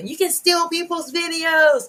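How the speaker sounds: high, slow, excited and thrilled, drawn out. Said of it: "I was very excited about that".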